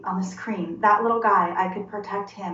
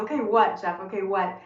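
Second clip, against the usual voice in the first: retold mild exasperation; mock annoyed. Wife questioning husband's response, mildly annoyed. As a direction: press him for more, lightly annoyed. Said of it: "which annoyed me at the time".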